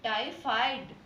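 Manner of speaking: टाइफाइड repeated clearly for pupils; teacher repeats टाइफाइड clearly; careful pronunciation. Shown as a demonstration. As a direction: say टाइफाइड crisply, stressing the फ. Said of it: "क्या है यह".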